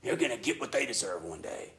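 smug, gloating quote of a vindictive believer; smug believer gloating over enemies. Retold or imitated. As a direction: relish the thought of their punishment. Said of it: "there shouldn't be a, "Yeah".

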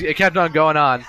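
ordinary delivery

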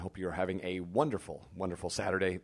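hoarse, voice fading in and out; losing voice. Real, not acted. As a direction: talk through a worn-out voice. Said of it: "I'm sort of losing my voice".

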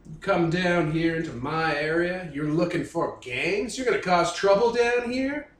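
lightly put-on Louisiana hillbilly drawl, menacing; a hint of a Louisiana swamp thug. Gang boss grilling a cop, light Louisiana hillbilly accent. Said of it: "I'm trying to do Louisiana hillbilly".

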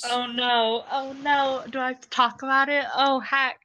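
high, fast, mock-anguished groan; playful dread. Real, not acted. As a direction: whine it like you're doomed. Dreading the ship question, mock despair.

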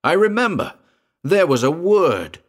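high, loud eager recall; excited. A narrator's reading. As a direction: blurt it out excitedly.

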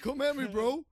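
high, loud bravado; mock challenge. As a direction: goad the dog with mock bravado. Joins taunting the imagined dog.

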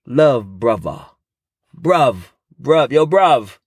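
lightly put-on London slang greeting; south london accent. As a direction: drop into a casual London "bruv". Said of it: "And they say".

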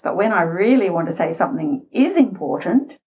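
deliberate, weighted delivery; slowed for importance. Shown as a demonstration. Voice coach signalling that a point is important, slowing down. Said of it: "I've slowed down".

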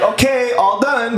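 masseuse's sing-out, pitched well up; imitated masseuse. Masseuse ending the session, high imitated voice. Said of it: "She's like".

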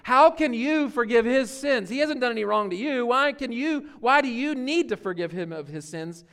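mock outrage of the religious leaders; hammed-up scandalized objection; indignant leaders. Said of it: "the religious leaders are like".

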